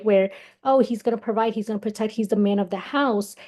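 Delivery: usual speaking voice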